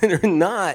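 giggly voice. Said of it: "I'm giggling".

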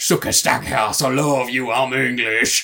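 put-on loud, belted vampire voice in a Cajun accent. Quoting Bill from True Blood speaking to Stackhouse, in his accent. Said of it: "I do this accent for fun".

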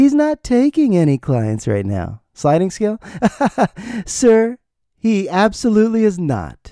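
very high-pitched, overly sweet, sugary polite voice. Retelling how a lady turned him down, imitating her nicest voice. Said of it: "She said it in the nicest voice".

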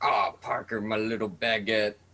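put-on coarse, crass old man's gruff drawl. Retelling what the old head chef used to say: imitating a crass old man. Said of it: "super crass old dude, and he would just be like".

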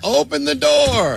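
hammy, echoing, very high, slow, drawn-out delivery.

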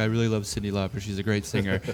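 mock flat, unvarying voice. Imitating how a funny man the speaker knows always talks, in a monotone voice. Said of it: "he just talks like this".

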